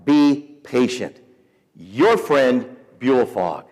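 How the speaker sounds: slow, emphatic note reading, key words punched; reading a heartfelt note aloud. Retold or imitated. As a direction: read it out like a proclamation, phrase by phrase. Reads his written note aloud.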